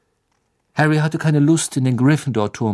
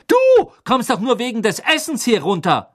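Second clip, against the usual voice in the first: higher, louder mocking retort; smirking; 11 semitones higher, 4 dB louder than usual. A narrator's reading. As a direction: tease Ron scornfully. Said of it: "feixte Hermine".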